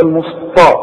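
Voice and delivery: "المسطى" with thick ṭa for light ta; wrong heavy ta. Retold or imitated. Teacher forbids the mistake, heavy ṭ in "المسطى". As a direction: mimic the error, heavy ṭ in "المسطى". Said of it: "فما تقولش".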